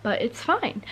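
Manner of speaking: speaking with a retainer in; slight lisp from a retainer. Real, not acted. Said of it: "I put my retainers in... a little bit of a lisp".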